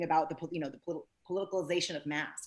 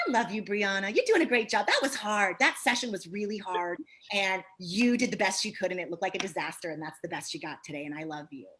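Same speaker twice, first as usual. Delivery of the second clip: sweet self-talk. Shown as a demonstration. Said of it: "I talk to myself so sweetly".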